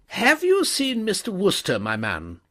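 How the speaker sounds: high, loud, imperious lady; stern headmistress. A narrator's reading. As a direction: demand an answer from the servant. Headmistress voiced.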